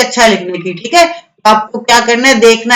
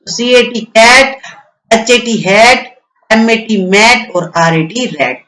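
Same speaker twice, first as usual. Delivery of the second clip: slow letter-by-letter spelling, then the word; spelling out slowly; slower than usual. Shown as a demonstration. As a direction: spell it slowly for children to repeat. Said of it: "जोर जोर से बोलना है इन words को". (धीरे-धीरे spelling बोलना)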